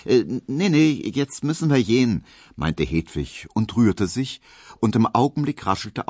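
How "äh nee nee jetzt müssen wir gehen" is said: put-on high, lively Berlin servant girl chattering; bubbly, high and quick as she confides; chatty Berlin maid. Hedwig telling Emil about her schooling, chatty and high.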